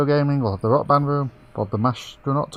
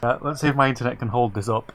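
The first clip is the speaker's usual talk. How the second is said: robot voice. Real, not acted. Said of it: "now he sounds like a robot".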